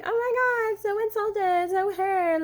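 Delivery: high mock wounded voice; mock hurt. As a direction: play the insulted victim, hammed-up. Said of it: "not being like".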